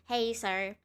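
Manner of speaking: lightly voiced polite robot, barely changed; a hint of a stiff machine helper; playing a mild robot waiter asking a customer; robotic voice. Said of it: "in a very robotic voice".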